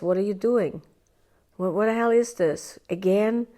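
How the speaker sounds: exasperated self-scolding, lightly voiced; a hint of snapping at yourself; mock harsh inner critic. Inner critic scolding yourself, mildly exasperated. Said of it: "the voice that says".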